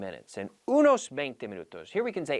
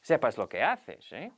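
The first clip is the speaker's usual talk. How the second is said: doubtful warning. Shown as a demonstration. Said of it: "what I'm saying here is".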